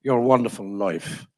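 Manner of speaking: lightly imitated Irish interviewer; a touch of Irish TV host; Irish accent. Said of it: "he's an Irishman".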